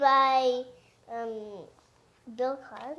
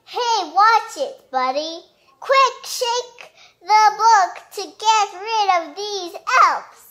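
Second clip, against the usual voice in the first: hammed-up alarm; 5 semitones higher, 4 dB louder than usual. Character annoyed, urgent.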